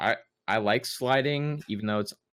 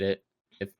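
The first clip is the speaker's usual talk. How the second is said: stumbling over the words; tripping on the start of the sentence; stutter. Real, not acted. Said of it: "I'm stuttering".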